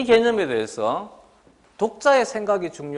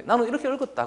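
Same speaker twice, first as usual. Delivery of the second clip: mock student; 6 semitones higher than usual. Teacher mimics student's personal reading.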